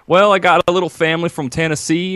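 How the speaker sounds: a singer. Retold or imitated. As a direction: put on a little country twang. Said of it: "pulled out my wannabe Elvis impersonation".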